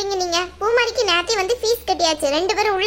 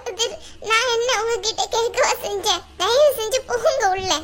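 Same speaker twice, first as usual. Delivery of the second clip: upset, tearful pleading; 2 semitones higher than usual. Acted. Humiliated student begging her friend to go inside, tearful. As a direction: plead through tears to be left alone. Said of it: "ஏன் இப்படி அழுவுறீங்க?".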